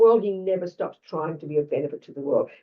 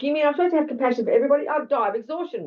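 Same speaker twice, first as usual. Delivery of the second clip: higher, incredulous protest at the big ask; mock overwhelmed protest; 7 semitones higher, faster than usual. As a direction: play someone aghast at being asked too much. Voicing our protest against compassion.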